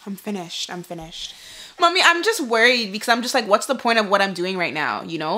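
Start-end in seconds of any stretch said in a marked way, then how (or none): 0.1-1.4 despairing. Real, not acted. Fearing infection.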